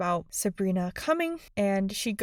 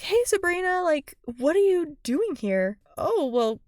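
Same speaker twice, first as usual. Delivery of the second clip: friendly welcome; 6 semitones higher than usual. Retold or imitated. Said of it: "She didn't even say".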